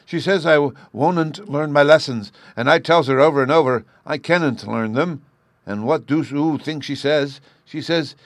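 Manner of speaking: put-on a small boy airing his grievance; high, loud childlike complaint; indignant little boy. A narrator's reading. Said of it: "Bruno rejoined".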